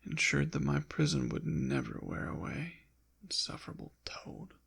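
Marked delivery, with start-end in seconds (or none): 3.2-4.5 soft, hurried aside of disdain; muttered contempt. Acted. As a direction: mutter it fast, under your breath. Insults the exorcist who trapped them.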